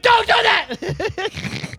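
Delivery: very slow, high, pleading cry; drawn-out scared plea. Retold or imitated. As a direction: stretch it out, begging in fear. Retold frightened plea.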